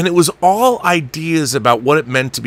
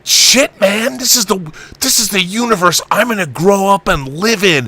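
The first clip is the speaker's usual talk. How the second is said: put-on awed kid; 4 semitones higher than usual. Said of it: "watching this going".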